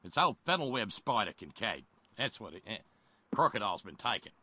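hammed-up Aussie character; Australian accent. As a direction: talk like a mock Australian. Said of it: "to do my Australian accent".

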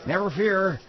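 lightly voiced senator speech; pompous politician impression; Arlen Specter impression. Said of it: "He does a rockin' Arlen Specter".

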